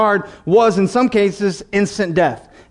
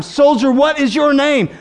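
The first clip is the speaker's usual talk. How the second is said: higher, insistent commander; stern officer repeating his demand; sterner demand; 5 semitones higher than usual. Acted. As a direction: press the question harder, pitched up. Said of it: "A second time".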